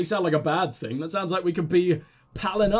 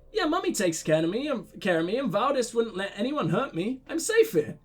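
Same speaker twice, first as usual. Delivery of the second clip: lightly voiced child, lifting high at the end; a hint of a reassured small kid; trusting little girl; 3 semitones higher than usual. Little girl tells a visitor she is safe, lightly voiced child. Reads little girl's answer.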